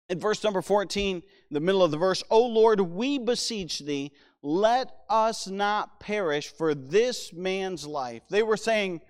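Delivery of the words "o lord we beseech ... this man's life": slow, measured reading of a plea; strong address, then draw the words out; scripture reading. Acted. Preacher rereads the sailors' prayer, measured scripture reading.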